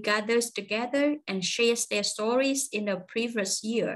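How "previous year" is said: "year" sliding downhill to close the sentence; falling tune on year. Shown as a demonstration. Teacher modelling a sentence ending for learners, falling tune on "year". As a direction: let "year" drop down at the end. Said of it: "chữ year hạ xuống luôn".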